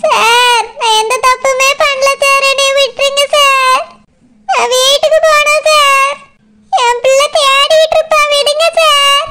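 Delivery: crying as she begs to be let go; tearful pleading. Acted. Woman begs the policeman to release her, crying. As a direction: plead through tears, voice wet.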